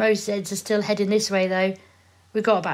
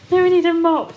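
laughing; 9 semitones higher, 7 dB louder than usual. Real, not acted. Laughing, raised.

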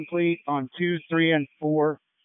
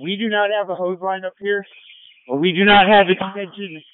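urgent firefighter radio; 3 semitones higher, 6 dB louder than usual. Real, not acted. Medic reporting from burning building.

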